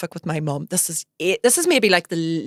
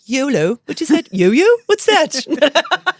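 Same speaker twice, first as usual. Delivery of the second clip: put-on high, puzzled old-timer questions; mock confused; 8 semitones higher, 6 dB louder, much slower than usual. Behind-the-times woman baffled by slang, lightly mocking. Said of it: "I'm like".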